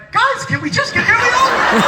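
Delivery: high, pleading, impatient question; high exasperated plea. Retold or imitated. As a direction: whine it up high, fed up. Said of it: "Jared is like".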